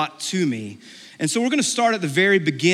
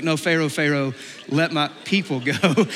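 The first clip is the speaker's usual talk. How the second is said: firmer, fuller-voiced plea; insistent demand. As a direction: press the demand after being refused. Repeated demand after refusal.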